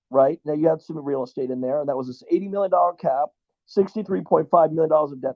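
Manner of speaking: ordinary talk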